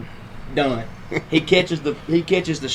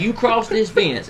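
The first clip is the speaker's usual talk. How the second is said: slow, drawn-out warning, pitched up; measured, higher-pitched retold challenge; retold threat; 7 semitones higher, slower than usual. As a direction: lay down a line slowly, imitating your own threat.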